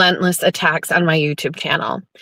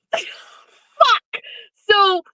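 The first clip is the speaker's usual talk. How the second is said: laughing; 13 semitones higher than usual. Real, not acted. Laughing fit continues.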